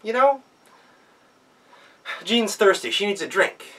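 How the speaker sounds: put-on high, loud child's voice; sweetly scheme like a child; girl tricking the wolf with a request; clever girl. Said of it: "and she said".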